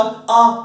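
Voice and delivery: pain cry demo. Shown as a demonstration. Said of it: "अपने दर्द हुआ".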